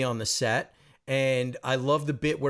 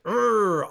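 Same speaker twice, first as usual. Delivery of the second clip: mock stubborn grunt; 7 semitones higher, 5 dB louder than usual.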